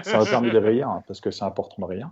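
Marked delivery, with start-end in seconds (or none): 0.0-0.9 laughing. Real, not acted. Sarcastic jab, laughing.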